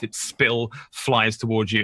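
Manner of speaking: ordinary delivery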